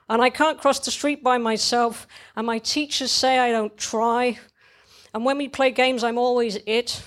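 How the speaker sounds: lightly voiced child listing grievances; a small kid's woeful recital, pitched a little up; child's plaintive monologue. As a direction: confess each failing like a hard-done-by kid. Child lists grievances in read story.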